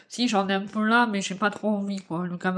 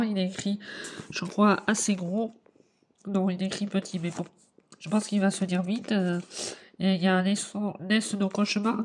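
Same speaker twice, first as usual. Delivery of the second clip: chewing gum while speaking; chewing while talking. Real, not acted. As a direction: talk around a piece of gum. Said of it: "je mange un chewing-gum en même temps".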